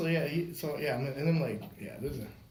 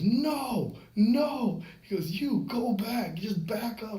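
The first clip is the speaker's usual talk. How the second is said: higher, raised-voice order; retold stern command; 8 semitones higher, much slower than usual. Captain getting between two men, firmly commanding. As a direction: cut in to break up a fight.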